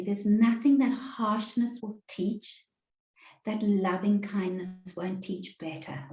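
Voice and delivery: slow and deliberate, each word placed; said slowly. Shown as a demonstration. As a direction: let the words land one by one, slowly. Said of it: "and I'll say this slowly".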